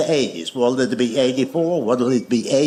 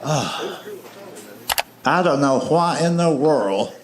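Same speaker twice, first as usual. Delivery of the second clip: gently mock a relative's weary grumble, with pauses; mimicking overweight relatives. Overweight relative complains about sore feet, lightly mimicked grumble. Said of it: "the way they talk".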